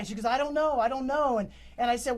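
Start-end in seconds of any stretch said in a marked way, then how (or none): 0.2-1.4 higher, louder mock-frantic repetition; retold hysteria. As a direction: lightly imitate a distraught woman on the phone. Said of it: "just hysterical the whole entire time".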